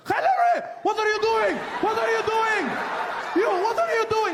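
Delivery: very high, loud shocked shriek; shrieking guards. Retold or imitated. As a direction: panic like scandalised guards. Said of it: "They were just like".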